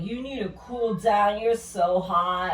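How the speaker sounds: put-on slow, drawn-out drunk guy line; slow mock drunk come-on. Drunk guy pouring beer on her, slow mock drawl. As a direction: stretch it like a drunk sure of himself. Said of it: "And he's like".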